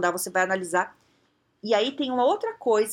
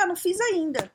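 higher, careless "not done yet"; casual admission; 8 semitones higher than usual. Retold or imitated. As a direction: say it without a care. Carol admitindo sem ligar. (Carol despreocupada, mais aguda)

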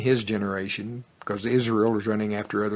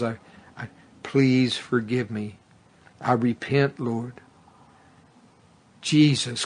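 sinner's prayer. Shown as a demonstration. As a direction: lead them gently through the prayer. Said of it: "Just say this after me".

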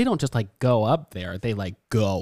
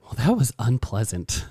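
dry politeness. Retold or imitated. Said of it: "and I was like".

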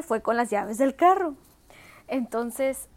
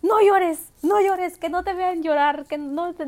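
louder, higher stern order; a mother sternly telling her daughter not to cry; firm mom command; 5 semitones higher, 5 dB louder, slower than usual. Retold or imitated. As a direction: stop the tears now.

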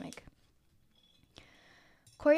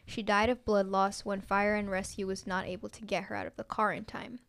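measured, even read-aloud delivery; story narration. A narrator's reading. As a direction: read it out clearly like a written story. Reads own story aloud.

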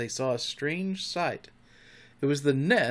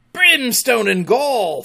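slow, high, furious bellow; drawn-out pirate roar; thundering; 10 semitones higher, 10 dB louder, slower than usual. A narrator's reading. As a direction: thunder it out in rage. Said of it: "thundered Hook".

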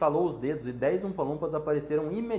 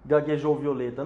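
plain reading voice

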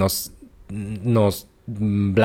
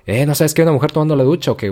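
higher mock scolding shout; raised voice; 7 semitones higher, faster than usual. Woman scolds the spear intruder, mild mock shout. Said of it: "levantar la voz".

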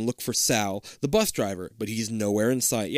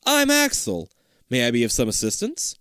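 open and friendly. Acted. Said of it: "his voice is friendly".

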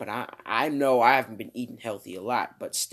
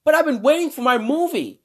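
high, loud put-on complaint; mock whining protest; 11 semitones higher, 6 dB louder than usual. Actress protesting she's waited for her movie, whiny. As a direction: whine it in a higher put-on voice.

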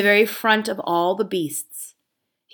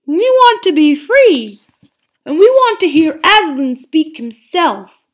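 put-on old bear; 9 semitones higher, 10 dB louder than usual. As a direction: plead like a simple old bear. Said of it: "said an old bear".

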